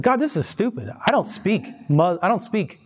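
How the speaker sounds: high-pitched mock frustration with God; exasperated complaint. Young Persian man griping to God about prayers, exasperated. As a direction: complain to God as the fed-up convert.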